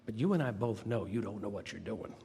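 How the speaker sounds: put-on light Southern accent, measured and frank; a hint of Southern accent. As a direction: imitate an older Southern supervisor, lightly. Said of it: "she had this wonderful Southern accent".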